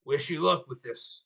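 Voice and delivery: hint of a gruff deputy. GM voicing a low quiet character.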